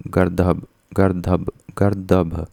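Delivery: गर्दभ said with an unaspirated d; measured repeats of गर्दभ, "gar-dabh"; d sound in गर्दभ. Shown as a demonstration. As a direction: say गर्दभ word by word, plain d in the middle. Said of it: "द होता है".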